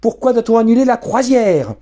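shrill daughter confronting her father; shrill spoilt girl. Acted. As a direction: whine up high like a spoilt teen. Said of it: "lança-t-elle d'une voix aiguë".

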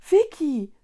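loud, high, falling exclamation; aghast cry. A narrator's reading. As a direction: call out in dismay. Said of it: "rief Mila entgeistert aus".

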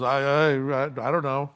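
halting mock ignorance; evasive stammer. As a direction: fumble it like a dodging messenger. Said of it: "he just goes".

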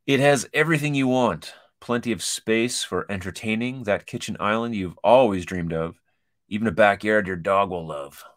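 animated, emphatic read-out; quiz intro read-aloud. Real, not acted. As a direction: read it out like a lively promo.

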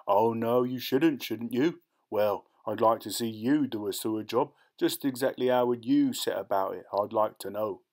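mocking Cockney rat catcher; sarcastic challenge. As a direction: needle him with pointed questions. Rat man challenges Claude sarcastically.

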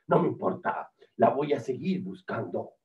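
low, dogged hunter voice; stubborn whale hunter. Acted. Hunter shrugs off, resolves to search.

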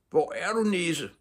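high, desperate searching shout; frantic high-pitched yell; shouted call. A narrator's reading. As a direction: call far into the forest. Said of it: "råbte han".

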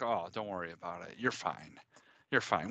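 low, soft, soothing dad; reassuring. Retold or imitated. Dad reassuring crying daughter, retold.

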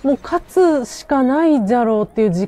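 loud and thrilled, voice up high; cheering as the win gets close; excited. Real, not acted. Excited as the fight turns.

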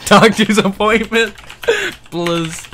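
웃음이 터지며 훨씬 높고 크게 끝맺기; 참던 웃음이 터져 나오듯; laughing. Real, not acted. Breaks into laughter mid-word.

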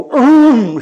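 loud, high vocal engine burst; car roaring off. Retold or imitated. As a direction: imitate a car tearing away. Imitating car shooting off.

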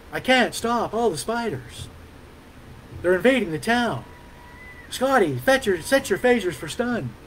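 Shatner-style halting pauses, lightly done; William Shatner as Texan Kirk. Retold or imitated. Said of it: "I know that sucked".

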